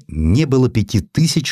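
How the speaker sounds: usual speaking voice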